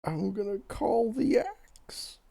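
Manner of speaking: hushed whisper at the table. Real, not acted. Player whispering to the group about calling the axe. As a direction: keep it secret, whisper it.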